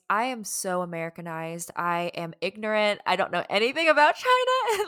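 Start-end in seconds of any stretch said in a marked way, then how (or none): 3.0-4.8 exaggerated overstatement. Real, not acted. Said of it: "I backtrack".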